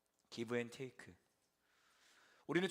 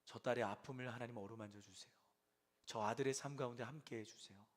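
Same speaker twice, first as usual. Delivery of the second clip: quiet intercession; 3 semitones lower, 3 dB quieter than usual. Retold or imitated. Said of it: "이렇게 기도하는 거죠".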